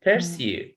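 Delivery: "Pursue" with a stressed, falling SUE; stress on second syllable. Shown as a demonstration. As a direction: model pur-SUE for a student. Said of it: "So the stress in sa".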